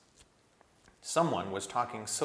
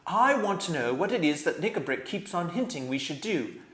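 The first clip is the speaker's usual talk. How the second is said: stern king; 8 semitones higher, 6 dB louder than usual. A narrator's reading. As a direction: weigh each word like a king. King Caspian.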